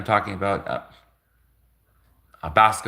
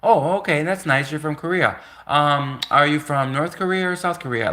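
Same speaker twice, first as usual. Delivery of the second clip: higher, light and friendly asking; casual friendly question; 4 semitones higher than usual. Retold or imitated. To the Korean classmate, asking casually and politely. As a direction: ask it breezily, no offense meant. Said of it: "I just said, like".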